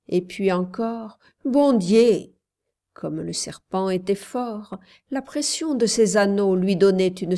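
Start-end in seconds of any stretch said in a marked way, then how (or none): 1.4-2.3 loud, raised exclamation; cry for help. A narrator's reading. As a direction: call out in desperation. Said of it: "Elle appela de nouveau au secours". (appel au secours)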